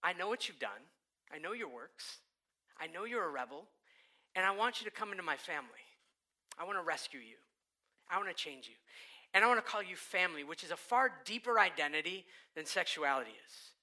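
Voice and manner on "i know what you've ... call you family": tender Jesus. Acted. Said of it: "That Jesus says".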